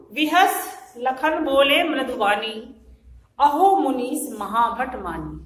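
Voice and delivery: slow, drawn-out verse declamation; verse recitation. Shown as a demonstration. Teacher presenting next verse to students, slow measured recitation. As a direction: recite it slowly, stretching the words.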